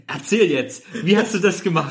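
eager, giggling questions; laughing as the curious friends. Retold or imitated. Mimics eager crowd, laughing.

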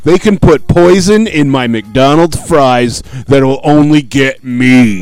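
a hint of a self-important dad; mock dad voice. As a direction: imitate a dad, dragging out his grand claims. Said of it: "your dad's like".

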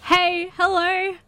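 high drawn-out come-on; slow teasing greeting; flirty hello. Acted. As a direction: call him over flirtily. Flirty calling to Rick.

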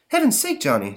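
high startled exclamation; surprised Daisy. Acted. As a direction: gasp it in surprise. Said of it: "says Daisy".

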